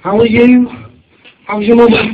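a high, bright mock greeting; chatty acquaintance. Nosy acquaintance greeting him at the till, high mock cheer. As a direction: put on a nosy neighbour's cheery voice. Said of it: "Next thing you hear is".

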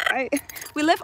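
ordinary talk, nothing marked

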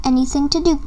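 ordinary delivery, nothing marked

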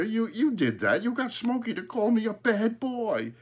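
put-on high, loud boy's accusation; astonished high-voiced protest; indignant. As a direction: catch dad out in his trick, pitched high. Boy accuses his joking father.

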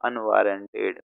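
unwarranted said as a pronunciation model; demonstrating how to pronounce unwarranted; unwarranted pronounced for learners. Shown as a demonstration. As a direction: say unwarranted carefully, as a model word. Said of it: "इसका pronunciation होता है".

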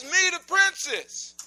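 sweet princess calling at the door; hint of a young princess. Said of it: "She says".

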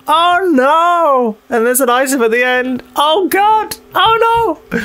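high, frightened squeaky cries; scared squeal. Real, not acted. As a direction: yelp it out high in panic. Scared while exploring dark room.

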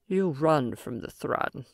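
slow, grave warning; ominous alien voice. Acted. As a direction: let it hang like a threat. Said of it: "The ominous tone of the Aurelian".

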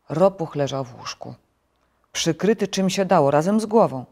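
ordinary delivery

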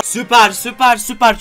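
loud, thrilled "süper" repeated; excited cheer. Real, not acted. Gamer shouting at a lucky Edgar drop, thrilled. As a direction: cheer it out like a jackpot hit.

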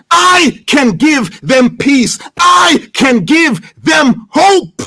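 slow, punched words climbing at the end; emphatic preaching. Real, not acted. Preacher declaring God's promise of rest and hope, emphatic preaching. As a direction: drive each word home slowly.

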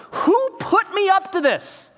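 high, slow indignant demand; a king demanding who tricked him; outraged king. Retold or imitated. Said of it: "he's trying to remember".

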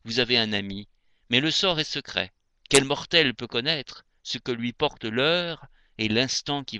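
measured, lyrical poem reading; poetry recitation. Acted. Reader reciting André Chénier to radio listeners, poetry recitation. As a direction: recite verse with phrase-end pauses.

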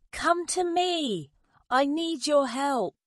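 high, stretched appeal; calling out. A narrator's reading. Mother bird asking birds for help, high urgent call. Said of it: "she called out".

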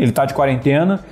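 ordinary talk, nothing marked

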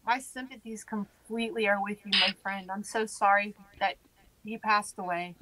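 gentle, subdued sympathy; sincere condolence. Real, not acted. Condolences to a bereaved listener.

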